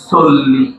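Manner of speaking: "চল্লিশ" said as sollish; "চল্লিশ" with a dental s, not ch; s replacing ch. Shown as a demonstration. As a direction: say "চল্লিশ" with s at the start. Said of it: "চ কে দন্ত স উচ্চারণ করবো".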